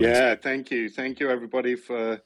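blocked nose, congested voice; talking through a stuffy cold. Real, not acted. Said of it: "listening to my bunged up, uh, voice here".

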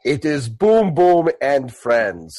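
lightly voiced slow, broken-speech orc; a hint of a ponderous orc making an entrance; Boom Boom. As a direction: announce yourself in slow, simple speech. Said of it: "take the robe off and go".

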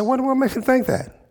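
upset, retold. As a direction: act out an exasperated king. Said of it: "So he's upset".

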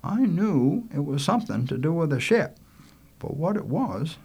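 a hint of a folksy storyteller; reminiscing Lester. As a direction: begin a boot camp tale at leisure. Lester starts a tale.

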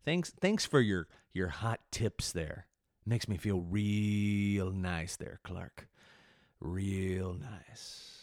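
slow, dry sarcasm; sarcastic reply to a troll, slow and dry; sarcastic thanks. Retold or imitated. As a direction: drip with mock gratitude. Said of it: "I'm like".

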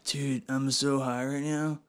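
slow, soft stoner voice; slow it down like you're baked; stoned. Acted. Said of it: "I'm saying".

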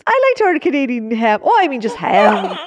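badly faked Canadian accent ordering pizza. Shown as a demonstration. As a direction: try a Canadian accent that slips toward leprechaun. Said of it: "Do it again as a Canadian".

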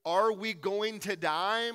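mock frightened Israelite, slow; scared question. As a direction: ask it like a scared wanderer. Scared Israelites voiced in story.

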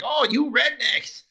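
imitating Khan. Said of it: "would always be like".

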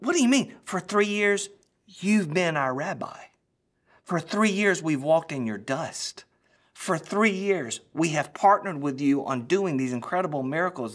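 high, loud, urgent questioning of the rabbi; stunned disciples pleading with their teacher. Acted. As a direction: beg him to explain, pressing each "For three years". Disciples voiced, pleading with Jesus.

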